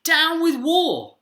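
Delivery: high, loud, drawn-out hoot; hooted protest. A narrator's reading. Drip singing the wrong words, hooted. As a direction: stretch the slogan into a hoot. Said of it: "and he hooted".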